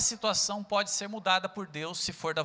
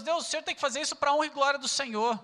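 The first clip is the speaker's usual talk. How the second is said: mock demanding prayer; 5 semitones higher, faster than usual. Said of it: "usamos o próprio nome de Deus".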